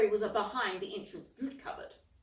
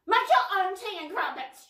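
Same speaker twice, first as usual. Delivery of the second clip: loud, higher angry shout; 10 semitones higher, 6 dB louder than usual. A narrator's reading. Jezebel quitting on Cauldron, angry shout. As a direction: hurl it at him. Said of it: "she shouted".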